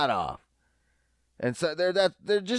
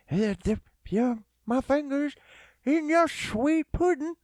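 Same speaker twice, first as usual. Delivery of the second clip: second, more committed Cosby attempt; Bill Cosby impression; 8 semitones higher than usual. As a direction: stretch it out in a hammed-up Cosby voice. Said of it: "Let's try it again".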